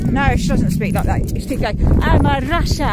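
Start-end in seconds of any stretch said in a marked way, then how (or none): 2.0-2.9 put-on Russian accent. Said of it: "I'm not really good at Russian accent".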